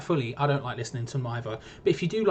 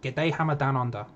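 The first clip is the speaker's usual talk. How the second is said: poor attempt at an Australian accent; unconvincing Aussie greeting. Shown as a demonstration. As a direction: practise an Australian accent, feeling for the vowels. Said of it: "say good day in an Aussie accent".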